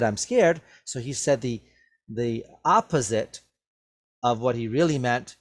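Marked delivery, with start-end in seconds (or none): 0.0-0.6 sarcastic. Shown as a demonstration. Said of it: "he said it sarcastically".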